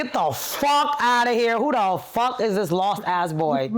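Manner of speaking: high, slow, drawn-out mock outrage; retold indignant outburst. Girl rejecting the boy at the door, hammed-up outrage. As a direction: act out an incredulous telling-off.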